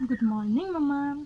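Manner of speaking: slow sing-song good morning; tender wake-up call. Real, not acted. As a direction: draw it out gently to wake her. Waking a sleeping toddler.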